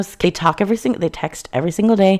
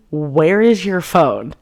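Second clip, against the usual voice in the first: retold demand, drawn out word by word; acting out a slow, exasperated question; slow, pointed demand; slower than usual. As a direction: stretch the question out in mock exasperation. Acted confrontation over missing phone.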